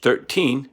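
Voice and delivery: put-on THIRTEEN in two separate beats, thir-teen; two syllables. Shown as a demonstration. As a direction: break THIRTEEN after thir to show both syllables. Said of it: "you get two syllables".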